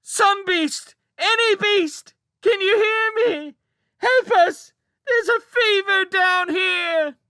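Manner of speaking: child bellowing a fake fever plea; piercing howl. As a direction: scream it across the fortress. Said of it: "yelled aloud in a piercing howl".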